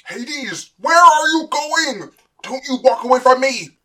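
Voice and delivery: high, loud, commanding yell; enraged shout. Acted. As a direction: shout after a son walking away. Father shouts after departing son.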